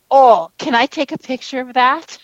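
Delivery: imitating an eager officer, pitch lifted; mildly excited request, leading with a big "Oh". Amused police officer asking the She Squatchers, excited. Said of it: "he was pretty excited".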